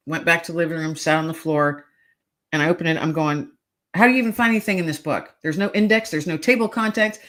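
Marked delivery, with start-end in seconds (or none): 3.9-7.2 higher, hurried exasperated complaint; retold frustration. Searching an unfamiliar Bible on the floor, mock frustration. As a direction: rattle it off, mildly fed up. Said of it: "I was mad".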